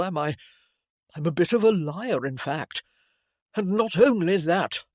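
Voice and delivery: put-on earnest, rueful young man; young gentleman voice. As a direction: confess it, a touch ashamed. Harold berates himself.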